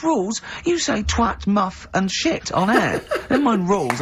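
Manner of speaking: high-pitched, incredulous mock retort; Carl impression. Host retells his friend's retort about the rules, high and incredulous. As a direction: imitate a scoffing friend, pitched well up. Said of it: "He go-, he goes".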